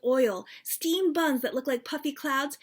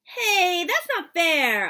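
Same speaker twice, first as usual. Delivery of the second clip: put-on higher and louder, outraged kid; indignant protest; 7 semitones higher, 8 dB louder, slower than usual. Girl protesting to Dad over dumplings, indignant. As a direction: protest the unfairness. Child protesting Dad's joke.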